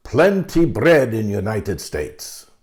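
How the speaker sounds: put-on booming, thick Russian accent, laid on heavily. Quoting a father reaching across the lunch table, in a booming thick russian accent. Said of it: "in his booming voice with the thick Russian accent".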